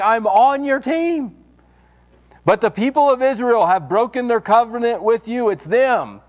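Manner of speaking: a self-pitying prophet wailing to God; whiny Elijah. Retold or imitated. Elijah complaining to God that he is alone, high and whiny.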